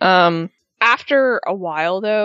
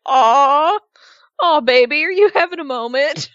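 put-on higher, patronizing coo at a sulking kid; mock baby talk; 7 semitones higher, 3 dB louder than usual. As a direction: talk down to her like a cranky toddler, cooing. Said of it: "I'm just like".

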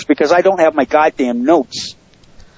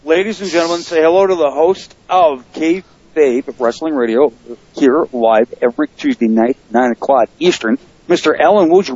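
announcer introduction. Pretend. Host introduces guest like an announcer.

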